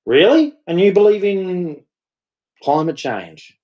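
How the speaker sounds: mock disbelief. Real, not acted. Incredulous rant.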